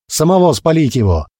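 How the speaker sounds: high furious cry; angry crowd shout. Acted. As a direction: call for his burning. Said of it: "раздались крики со всех сторон".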